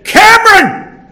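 very high, very loud, falling call; last warning yell with a stamp; final angry shout. Retold or imitated. Mother's third call to her ignoring son, angry shout. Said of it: "she stamped a foot on the veranda and said".

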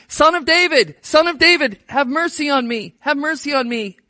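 a beggar crying out for mercy; calling out. Retold or imitated. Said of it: "he's yelling".

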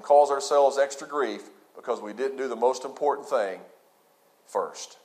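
low, soft, confiding words to the congregation; hushed aside. Acted. Preacher confiding softly to the congregation, hushed. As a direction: drop the voice and lean in close.

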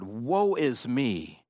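slow, drawn-out lament, not shouted; understated cry of awe before God; Isaiah crying out. Acted. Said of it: "who cried out in the presence".

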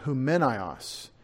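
Humenios said slowly, stressed on MEN; slow Greek "Humenios", stress on second syllable; Greek pronunciation. Shown as a demonstration. Preacher shows the original Greek name, Greek pronunciation. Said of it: "wanted you to hear it in Greek".

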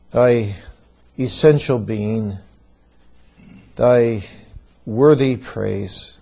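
earnest congregational prayer. Acted. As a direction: pray aloud to God, measured and solemn. Leads a prayer.

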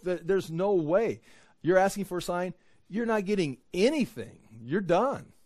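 emphatic. Real, not acted. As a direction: hammer home the refusal. Preacher drives home Jesus' refusal.

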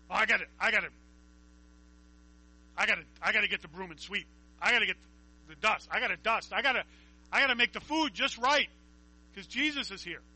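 preacher lightly voicing fussing Martha; frantic Martha. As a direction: rattle off the chores in a flustered rush. Voicing Martha fretting about chores.

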